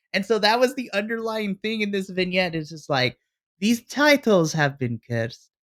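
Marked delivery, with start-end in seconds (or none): 3.6-5.3 fake, horrible, swooping Russian accent. Imitating a wrestling vignette line: bad Russian accent. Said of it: "I don't know why I'm doing Russian".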